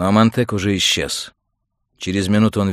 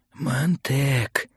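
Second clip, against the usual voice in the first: higher, hushed warning; warning call; 6 semitones higher than usual. A narrator's reading. Old mentor warns Montag through his earpiece, cautioning. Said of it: "предостерегающий шёпот Фабера".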